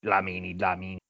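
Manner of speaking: put-on old speech synthesizer; flat robotic name readout. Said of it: "That's my robot voice".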